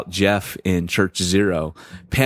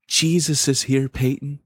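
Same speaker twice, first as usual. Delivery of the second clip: reassuring; 6 semitones higher than usual. Retold or imitated. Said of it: "And she goes".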